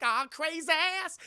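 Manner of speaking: high, loud, drawn-out cry; mock exasperated yell. Chris Tucker agreeing to jump, mock exasperated yell. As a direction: holler it while being forced to jump. Acted panicked reply.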